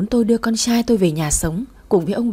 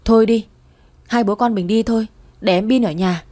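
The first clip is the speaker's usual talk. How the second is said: snapping father. Acted. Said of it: "Đạt gắt lên".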